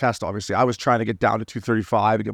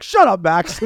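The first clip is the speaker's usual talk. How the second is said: higher, louder playful snap; mock irritated retort; 5 semitones higher, 4 dB louder, slower than usual. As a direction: shut a colleague down in mock annoyance. Acts out snapping at booth colleague.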